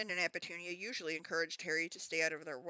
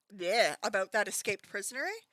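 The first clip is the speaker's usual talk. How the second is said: put-on Canadian accent slip; 2 semitones higher, 6 dB louder than usual. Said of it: "my Canadian came out there so hard".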